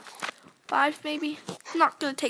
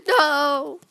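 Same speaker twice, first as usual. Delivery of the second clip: shocked gasp; 3 semitones higher, 6 dB louder than usual. Real, not acted. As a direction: gasp in panic at losing. Nearly losing the race.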